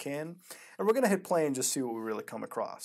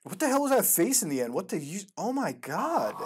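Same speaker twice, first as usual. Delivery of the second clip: shocked disbelief; 5 semitones higher than usual. Real, not acted. Reacts to the scary face.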